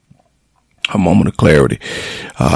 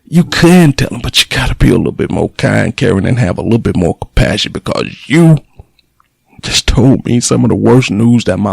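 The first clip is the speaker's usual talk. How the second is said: real indignant anger; 4 semitones higher than usual. Real, not acted. Son venting at the nurse who called about mom, furious. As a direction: let the outrage pour out, building.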